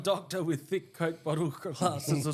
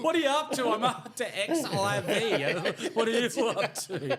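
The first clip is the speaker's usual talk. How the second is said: laughing; 4 semitones higher than usual. Real, not acted. Mocking counting, laughing.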